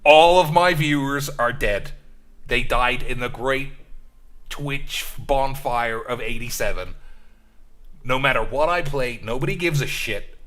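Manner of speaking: Dark Side Phil impression. Streamer lamenting dead viewers to chat, high loud whiny impression. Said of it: "it doesn't sound anything like him".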